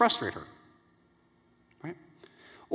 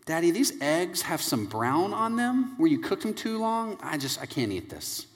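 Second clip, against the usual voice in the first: lightly voiced child, slow and hesitant; soft, drawn-out mock complaint trailing off; complaining young daughter; 6 dB quieter than usual. Six-year-old refuses dad's eggs, lightly voiced complaint.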